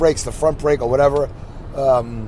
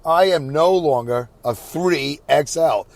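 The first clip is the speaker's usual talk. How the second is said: slow and emphatic, every word weighed; slow, deliberate repeat; slower than usual. Shown as a demonstration. Telling viewers he's slimmed down, slowly and emphatically. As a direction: spell it out slowly with pride. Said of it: "That's good".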